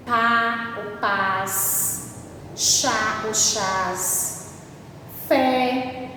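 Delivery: each word stretched out slowly; stretched, slow classroom examples. Shown as a demonstration. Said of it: "Por exemplo".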